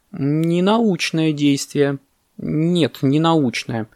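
slow, pensive judgement; thoughtful boa. Acted. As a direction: ponder it, drawing out the words. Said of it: "задумчиво сказал удав".

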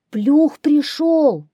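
high, loud, drawn-out hare cry; hares shouting in chorus. A narrator's reading. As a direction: cry out like panicked little hares. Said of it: "кричат хором зайцы". (зайцы кричат хором, высоко и протяжно)

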